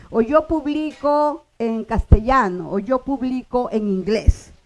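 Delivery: publico stressed on the middle syllable, pu-BLI-co. Shown as a demonstration. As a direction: hit the BLI of publico both times. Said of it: "puedo decir publico".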